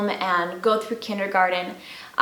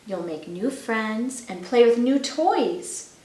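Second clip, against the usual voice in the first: gentle mother. Acted. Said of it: "she told him gently".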